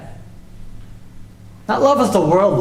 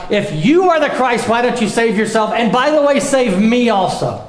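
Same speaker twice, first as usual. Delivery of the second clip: mocking thief; 4 semitones higher than usual. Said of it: "One thief is joining along with the rest of the crowd".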